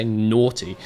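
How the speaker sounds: "naughty" said the British way; British pronunciation. Shown as a demonstration. Telling a viewer how British people say it, British pronunciation of "naughty". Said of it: "That's how British people say".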